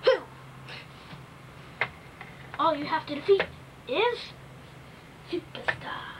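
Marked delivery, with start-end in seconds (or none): 2.6-6.1 whispering. Pretend. Dramatic reveal of opponent.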